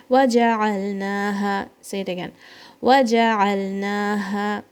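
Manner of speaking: fast melodic tajweed recitation; Quran recitation. Shown as a demonstration. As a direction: chant the verse for pupils.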